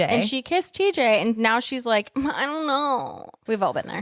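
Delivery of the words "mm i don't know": drawn-out, higher waffling; mock indecision. Co-host mimics the girl torn between two guys, mock indecision. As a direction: dither slowly, pitch lifted.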